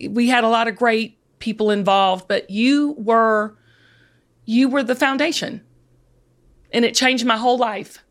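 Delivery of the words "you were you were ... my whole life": choked up with real gratitude; thanking her mentor, voice dropping to a whisper; emotional. Real, not acted. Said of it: "I'm getting emotional talking about it".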